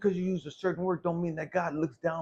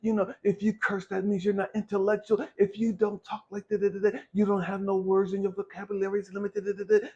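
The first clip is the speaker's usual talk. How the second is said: mocking snob; 3 semitones higher, 3 dB louder than usual. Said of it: "stop playing these fucking games".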